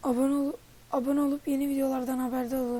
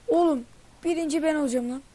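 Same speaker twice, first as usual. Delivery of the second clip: louder cocky vow; defiant boast; 3 semitones higher, 5 dB louder than usual. Real, not acted. Gamer vowing to viewers he'll take first place, cocky. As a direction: declare you'll win it, fired up.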